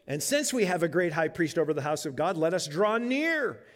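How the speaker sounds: reading the verse aloud with weight; scripture reading. Acted.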